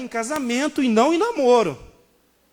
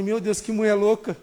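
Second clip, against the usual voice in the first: laughing disbelief. Retold or imitated. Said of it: "eu comigo falei".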